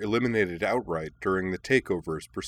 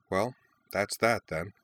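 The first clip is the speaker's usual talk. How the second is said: calm. Acted. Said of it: "she said calmly".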